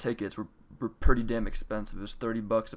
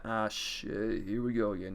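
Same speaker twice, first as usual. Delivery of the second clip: a light take on the weary meme quote; softly muttered, tired here-we-go-again; CJ line; 4 dB quieter, slower than usual. Retold or imitated. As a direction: sigh it out like a resigned game hero. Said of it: "I do the C J thing off of San Andreas".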